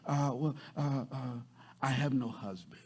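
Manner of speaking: soft, hesitant, sweetly evasive. Acted. Woman admitting to Jesus she has no husband, so sweet. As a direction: stall gently, then admit it quietly. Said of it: "she probably said it so sweet".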